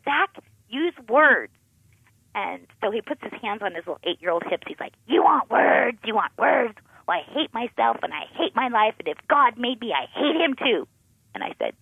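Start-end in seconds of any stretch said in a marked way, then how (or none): 0.1-1.5 high, loud frantic pleading; panicked inner voice. Retold or imitated. Mother's frantic thoughts about her son, high and pleading. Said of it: "I'm thinking in my mind". 5.1-10.9 put-on angry child retort. Angry eight-year-old retort.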